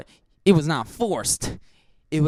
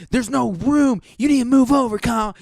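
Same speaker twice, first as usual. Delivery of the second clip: put-on higher, demanding girl voice; girl complaining; 8 semitones higher than usual. Girl on the twin bed ordering Kyle over, higher and demanding. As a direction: push Kyle over in a whiny higher pitch. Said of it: "And she's like".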